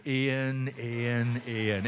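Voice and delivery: a parent's warning count; stern three-time call. Shown as a demonstration. Parent calling a child with mild mock sternness. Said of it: "it really needs to be three".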